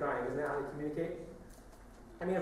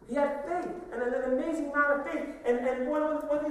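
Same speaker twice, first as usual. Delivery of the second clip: higher, louder preaching push; preaching emphasis; 10 semitones higher, 5 dB louder than usual. Real, not acted. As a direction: lift it up and press on faith.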